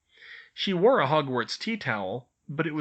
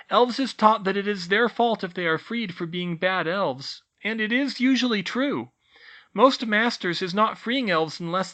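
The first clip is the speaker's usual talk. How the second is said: high squeaky elf voice, grave; solemn elf teacher; 9 semitones higher, 5 dB louder than usual. A narrator's reading. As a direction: explain patiently. Tilly explains elf shame.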